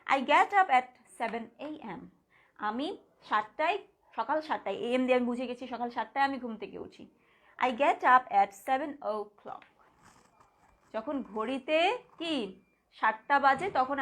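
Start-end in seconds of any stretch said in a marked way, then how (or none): 0.1-2.0 slow, careful reading; slow dictation. Shown as a demonstration. Teacher reading the first time format slowly. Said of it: "একটু change করে লিখেছি". 7.6-9.7 slow, careful reading; slow dictation. Shown as a demonstration. Teacher reading the second time format slowly. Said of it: "একটু change করে লিখেছি".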